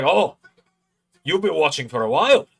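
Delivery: Joe Hendry. Retold or imitated. Wrestler impressed by a long-time fan, impersonated. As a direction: imitate an impressed star, pitch swooping up. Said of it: "not the best Joe Hendry impression".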